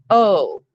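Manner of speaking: "o" said alone as a long vowel; isolated sound. Shown as a demonstration. Teacher sounding out the vowel in ro. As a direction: hold the "o" as one clean sound. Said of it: "Next sound".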